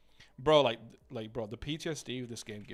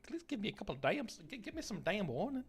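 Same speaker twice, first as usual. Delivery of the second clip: annoyed outburst; 9 semitones higher than usual. Real, not acted. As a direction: protest like you were ambushed. Startled by sudden game start.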